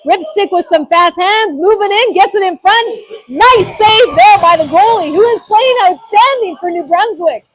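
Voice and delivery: ramp up for the chance; excited play-by-play. Real, not acted. Scoring chance, building call.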